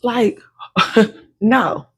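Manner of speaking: loud, high, laughing excuses; excited rambling. Acted. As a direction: babble excuses about your hair. Acting out flustered hair excuses.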